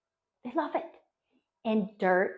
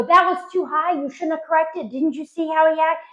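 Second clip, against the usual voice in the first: higher-pitched bickering spouse imitation; mock arguing; 6 semitones higher, 3 dB louder than usual. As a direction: scold your partner in mock exasperation. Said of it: "you guys are arguing".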